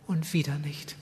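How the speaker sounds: breathy whisper of a grieving wife; wife whispering her disappointment to her husband; whispered despair. Retold or imitated. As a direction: let it fall to a whisper. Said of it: "hat einfach geweint".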